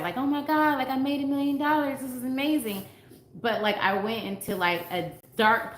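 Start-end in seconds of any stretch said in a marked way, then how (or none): 0.2-2.8 imagined excitement. Retold or imitated. Coach picturing her million-dollar month, mock excited squeal. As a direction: squeal it like she hit the jackpot. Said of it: "I thought that I was going to be, like, super excited".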